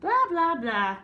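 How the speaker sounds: high, loud mocking blah blah; dismissive blah. Bad eggs brushing off the good egg, mocking and dismissive. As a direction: brush him off, careless. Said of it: "they replied".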